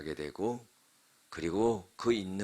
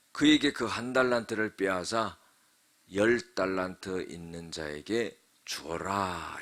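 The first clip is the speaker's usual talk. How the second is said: scripture recitation. Acted. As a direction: recite the master's order in measured phrases. Recites the master's command. (끝을 길게 늘이는 성경 봉독)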